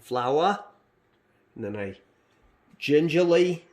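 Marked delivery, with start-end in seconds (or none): 2.8-3.7 mock dainty. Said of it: "just kidding".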